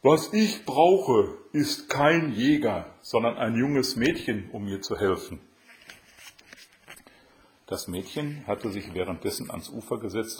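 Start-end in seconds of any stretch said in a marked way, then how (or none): 0.0-5.4 insistent crab. A narrator's reading. Crab says what it needs.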